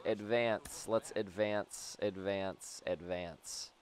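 soft, fading repeated urging; quiet urging. Real, not acted. Player nudging his runners to advance, quietly.

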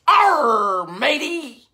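hammed-up pirate growl. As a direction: play a pirate for the kids. Pirate hat, says pirate greeting.

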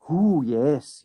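sorrows forgotten. A narrator's reading. Derbyshire takes up the limp idea, cheered. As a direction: brighten up with a drawn ooh. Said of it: "all sorrows forgotten".

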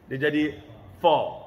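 fa with teeth pushed forward, heavy; teacher showing the wrong fa. Shown as a demonstration. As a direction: say fa with front teeth out, too thick. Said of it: "Salah, tak tepat".

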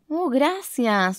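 slow, sighing thanks; the lion thanking friends with a sigh; relieved sigh. Acted. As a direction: breathe out the relief. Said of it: "suspiró el león".

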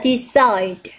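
decide slowly, stress on CIDE; stress on second syllable. Shown as a demonstration. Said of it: "chúng ta sẽ nhấn stress vào âm số hai". (nhấn âm hai của decide)

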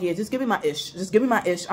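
groggy and impatient, barely awake; half asleep. Retold or imitated. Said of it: "I'm half sleeping".

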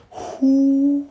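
high, loud, drawn-out outrage; a high, slow, shocked cat cry; outraged cat. Acted. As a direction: discover the intruder. Cat finds intruder.

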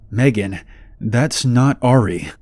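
slow, shaky frightened warning; trembling voice. Retold or imitated. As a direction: say it with your voice trembling. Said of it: "I said in a trembling voice".

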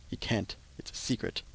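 teasing whisper. Pretend. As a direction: whisper it like a secret. Teasing viewers about cabin.

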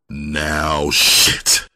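low-keyed yet threatening; low-keyed threat. Acted. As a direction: menace held in check. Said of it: "low-keyed yet threatening tone".

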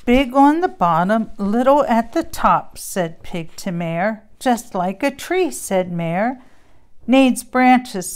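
lively storybook read-aloud with character voices; reading to children. Acted. Mom reading a Christmas book to kids. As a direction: read it like bedtime story time.

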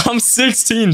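high, slow, laughing protest; laughing insistence. Real, not acted. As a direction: laugh it out in disbelief. Chat again doubts his age.

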